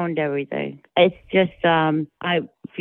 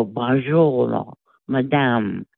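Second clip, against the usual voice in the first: dragged-out French; 2 semitones lower, much slower than usual. Retold or imitated. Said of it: "You go".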